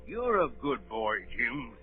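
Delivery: a lightly voiced gruff old captain, probing; old sea captain. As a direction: lean in like a suspicious old sailor.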